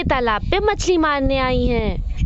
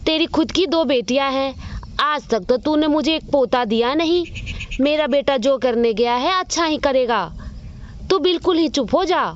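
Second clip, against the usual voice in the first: lightly voiced old grandmother, harsh and dismissive; scolding grandmother. Grandmother scolds her daughter-in-law for having only daughters, curtly. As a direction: snap at the daughter-in-law like a bitter old mother-in-law.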